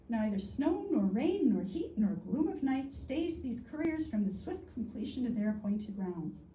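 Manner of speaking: measured recital of an inscription; formal quoting voice; quotation read aloud. Real, not acted. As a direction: read out a solemn motto, lifting each item of the list. Reads the quoted epigraph.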